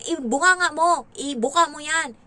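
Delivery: loud, high bossy command; stern nanny shouting orders. Retold or imitated. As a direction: bark the order at the child. Ordering child to open mouth.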